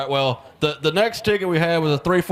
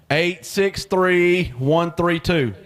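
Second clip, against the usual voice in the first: slow repeat; much slower than usual. Real, not acted. Raffle number repeated slowly.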